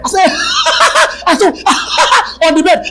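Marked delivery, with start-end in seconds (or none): 0.3-1.2 breathy mocking laugh. Retold laugh at the devil. 1.6-2.4 high, loud scornful laugh; high mocking laugh. Retold laugh at the devil.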